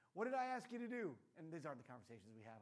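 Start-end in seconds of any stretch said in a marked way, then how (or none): 0.1-1.2 higher, louder interrogating tone; stern quiz. Pretend. Dad quizzing his daughter, mock stern. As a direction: demand she repeat it back.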